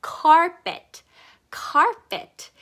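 "carpet" with a strong breath-backed "car"; "carpet" supported from the belly, English R; sound from the belly. Shown as a demonstration. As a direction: push the first syllable of "carpet" up from the belly. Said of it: "여기서부터 소리가 올라와야 된다는".

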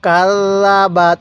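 কাল্লাবাত with the ল্ল held long; doubled l demo. Shown as a demonstration. Teacher models কাল্লাবাত with a held double l. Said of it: "আমার সাথে সাথে পড়ুন".

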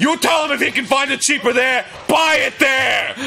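loud, high pawn shop bluster; smoker-voiced shop owner. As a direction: imitate an old pawnbroker yelling. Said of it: "like a smoker voice".

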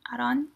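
"Aaron" as AH-ron, rising in question; questioning "Aaron" with a tapped r, AH-don; Korean pronunciation. Shown as a demonstration. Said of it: "that's how they say it in Korean".

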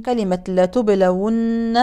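لتبلون slow, waw with damma, no madd; vowelled waw. Shown as a demonstration. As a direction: do not stretch the waw of لتبلون. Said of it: "الواو ليست مادية". (واو متحركة)

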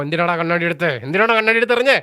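rising into an annoyed demand; mock-angry retort over the glasses; imitating an irritated man. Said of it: "വിപിന് ഒന്നെങ്കിൽ ദേഷ്യം ഉണ്ടാവും".

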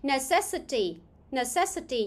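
"Necessity" said as ne-CESS-ity, stress on CESS; stress on second syllable. Shown as a demonstration. Teacher repeats for students after the audio, "Necessity" stressed on second syllable. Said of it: "nhấn âm hai".

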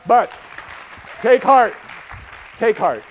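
loud, high rallying cry; rousing shout. Real, not acted. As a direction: call out to rally the whole crowd. Rallying the audience after bleak news.

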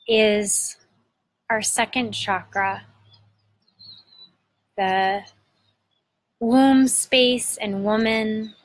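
unhurried meditation guide, long pauses between phrases; guided meditation. Acted. Host guiding listeners to breathe into their belly, guided meditation.

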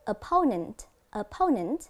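"Opponent" with PO stressed; "Opponent" said as o-PO-nent, careful demonstration; stress on second syllable. Shown as a demonstration. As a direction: lean on the PO in "Opponent". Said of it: "dấu nhấn sẽ nằm ở âm thứ hai".

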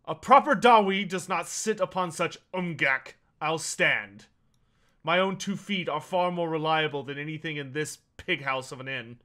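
loud, proud dwarf scorn. Acted. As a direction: sneer at the pig house. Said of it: "turns his attention back to you and says".

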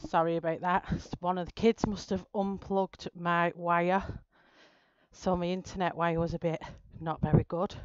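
breathless after rushing back; out of breath. Real, not acted. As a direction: talk while catching your breath. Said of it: "Gosh, I'm out of breath".

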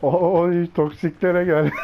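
laughing. Real, not acted. Laughing in chase.

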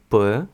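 П with no puff of air; plain Ukrainian П sound; unaspirated Ukrainian P. Shown as a demonstration. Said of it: "без передиху зовсім".

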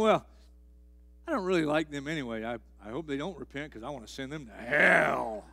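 mock God voice. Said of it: "God's not up there going".

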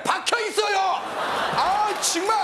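high-pitched comic cry of frustration; exasperated yell. Acted. Storyteller kicking a stuck rock in anger, exasperated yell. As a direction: yell out as the kick backfires. Kicked a stone stuck in ground.

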